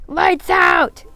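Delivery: high, loud holler. A narrator's reading. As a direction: holler it into the room.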